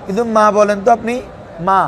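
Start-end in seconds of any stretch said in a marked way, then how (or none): 1.7-1.8 "মা" with a long, smooth vowel; drawn-out vowel. Shown as a demonstration. Teacher contrasting alif with hamza, long smooth "মা". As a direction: stretch "মা" without any catch. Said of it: "হয়তো একটু টানবেন".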